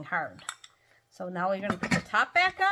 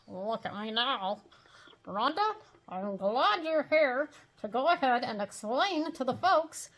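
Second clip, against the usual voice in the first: goofy dummy voice, slightly higher; dopey ventriloquist puppet voice; Mortimer Snerd; 3 semitones higher, slower than usual. Acted. Dummy speaks to Rhonda.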